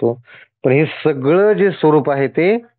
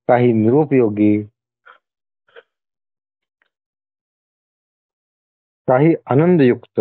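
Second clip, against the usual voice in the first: deliberate list, a pause after each item; measured scripture reading; slower than usual. Acted. God listing his many forms to the devotee, measured reading. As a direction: read it out phrase by phrase.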